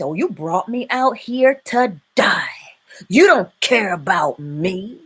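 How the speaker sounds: a breathy, unvoiced grumble at Moses; whispered complaint. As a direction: whisper the whiny accusation. Complaining people quoted to Moses.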